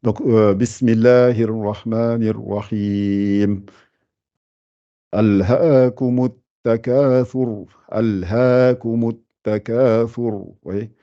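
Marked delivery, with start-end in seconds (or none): 0.5-3.7 slow, measured chanting of the basmala; Quranic recitation. Shown as a demonstration. Teacher opening the Quran lesson, slow recitation. 5.1-10.4 Quranic recitation. Shown as a demonstration. Teacher reciting for students to follow, chanted.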